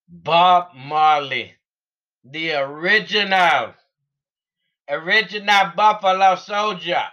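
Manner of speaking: Jamaican voice. Pretend. Vlogger showing off his Jamaican accent for viewers, lightly done. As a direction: lay a Jamaican lilt over the name, unhurried. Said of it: "That's my Jamaican voice".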